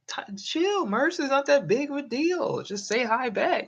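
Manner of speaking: very high, exaggerated squeaky voice; high-pitched mock pleading. Streamer acts out telling his friend to chill, high comic falsetto. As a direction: urge calm in a comic falsetto. Mock exchange with panicking Merce.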